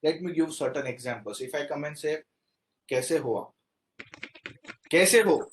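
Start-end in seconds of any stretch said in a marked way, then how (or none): 2.9-3.5 polite greeting. Shown as a demonstration. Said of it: "difference in the three things". 4.9-5.4 "Kaise ho?" called out high and loud; loud casual kaise ho; loud greeting. Shown as a demonstration. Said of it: "difference in the three things".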